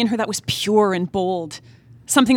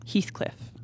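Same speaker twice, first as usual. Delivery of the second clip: whispered; 10 dB quieter than usual. Acted. Signature of letter, whispered.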